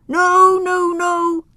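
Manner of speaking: high, loud frightened no; loud refusal. Acted. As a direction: cry out to stop him. Tim refuses to look.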